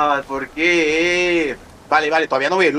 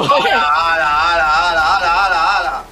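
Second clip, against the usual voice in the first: gasping in disbelief, loudly; amazed shout; 4 semitones higher, 5 dB louder than usual. Real, not acted. Amazed at the crashing riders.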